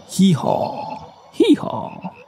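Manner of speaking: lightly imitated hee-haw; donkey bray. A narrator's reading. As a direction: bray like a donkey, each call separate. Donkey bray within the din.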